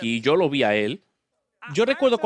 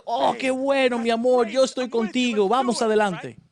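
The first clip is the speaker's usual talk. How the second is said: higher, bright-eyed supportive wife; eager wife Sefra; 5 semitones higher than usual. Acted. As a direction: cheer him on as his eager wife. Preacher voices Moses' wife. (esposa entusiasta que apoya a Moisés, voz más aguda)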